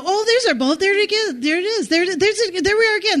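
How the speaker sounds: lightly voiced friends spotting their boat; mock excited pointing. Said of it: "I hear them say".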